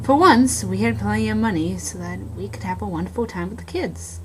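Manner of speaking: hushed, eerie storytelling, half-whispered in places; spooky story narration. Acted. Passing time while lost in the woods, eerie narration. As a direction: tell it like a campfire ghost story.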